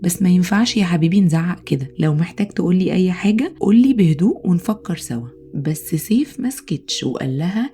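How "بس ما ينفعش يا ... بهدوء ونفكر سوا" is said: gentle calm. Acted. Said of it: "وقالت له بالراحة".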